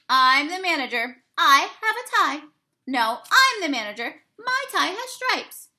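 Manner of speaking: high, loud insisting; squabbling mice. Acted. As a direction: outdo each other as manager. Two mice argue over manager.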